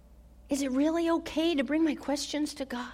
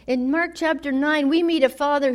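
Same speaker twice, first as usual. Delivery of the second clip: "In Mark chapter nine" restated louder, with emphasis on "Mark"; louder restart; 5 dB louder than usual. Shown as a demonstration.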